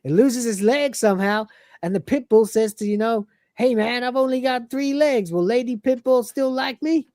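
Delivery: chatty mocking tale told brightly; Cat voice. Cat telling Lister the pit bull story. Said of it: "the cat says".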